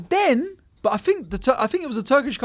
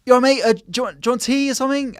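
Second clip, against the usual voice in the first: lightly voiced Welsh Indian plumber; a hint of a Welsh accent; 6 semitones higher, faster than usual. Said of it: "I like how you did the Welsh plumber voice".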